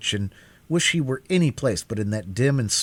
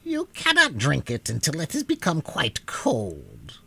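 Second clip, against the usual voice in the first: whispered; 5 semitones higher than usual. A narrator's reading. Witch gives orders at midnight.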